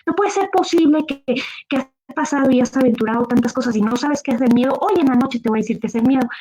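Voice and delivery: high, exasperated scolding; she's had enough of him; fed-up wife. Acted. Wife scolds Juan for never knowing fear, high and exasperated.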